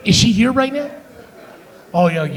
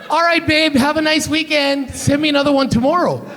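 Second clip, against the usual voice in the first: higher-pitched, easily won-over man; mock-appeased boyfriend; 6 semitones higher than usual. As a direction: play a man suddenly placated, pitched up. Acted man pleased by a nude.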